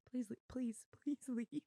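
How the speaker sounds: whispered plea to the dog; laughing whisper, pleading with the puppy. Real, not acted.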